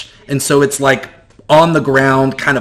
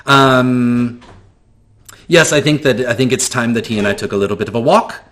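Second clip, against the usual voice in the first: flamboyant shopkeeper. Acted. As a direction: gush over the stranger, pitched way up. NPC smug, claiming Garrett.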